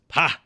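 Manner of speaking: loud "Pah!" of scorn; scoffing laugh. Acted. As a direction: bark out one dismissive laugh. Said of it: "Mebeth laughs".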